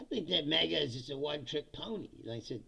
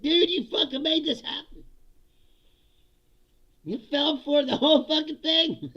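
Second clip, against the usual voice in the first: higher, louder exasperated telling-off; mock scolding retort; 9 semitones higher, 7 dB louder than usual. Answering Rogan's complaint, louder exasperated scolding. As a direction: yell it back at him, fed up. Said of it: "It's like".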